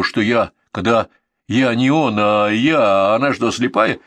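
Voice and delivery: plain reading voice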